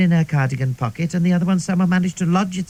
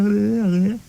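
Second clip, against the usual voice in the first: mumbled blah; 3 semitones higher than usual. Retold or imitated. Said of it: "I could only go sort of blah".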